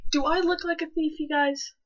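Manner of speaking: high, loud sassy outburst; mock-offended teen shouting at staring adults; sassy retort. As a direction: fire it back with full sass. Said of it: "It's like".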